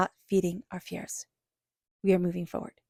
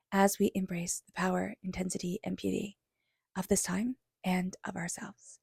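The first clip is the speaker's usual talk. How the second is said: whispered meditation; 4 dB quieter than usual. Acted. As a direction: breathe the words out gently to settle them. Leads a closing meditation.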